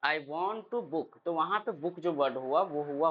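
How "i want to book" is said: slow, very deliberate mock phone call; phone booking call. Teacher acts out booking a hotel room, slow deliberate. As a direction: read it out slowly like a model phone call. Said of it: "आप call करते हो कि".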